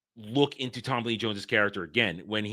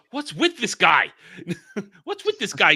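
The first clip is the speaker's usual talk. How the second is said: laughing quote; 7 semitones higher, 5 dB louder than usual. Retold or imitated. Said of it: "Cosmo goes".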